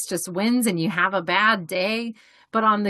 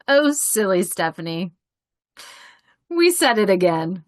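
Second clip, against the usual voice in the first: gentle self-talk; 4 dB louder than usual. Retold or imitated. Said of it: "hear my own voice and I'm gonna go".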